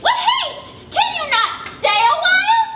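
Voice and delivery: high, protesting nurse; indignant old nurse. Acted. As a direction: complain like an out-of-breath old nurse. Nurse protesting Juliet's haste.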